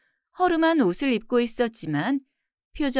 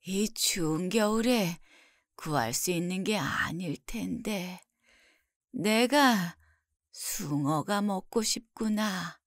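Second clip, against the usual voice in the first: soft, very slow, weak sick mother; ailing mother; 2 semitones lower, 6 dB quieter, slower than usual. Acted. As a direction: speak softly and slowly, drained by illness. Voices the sick mother's wish.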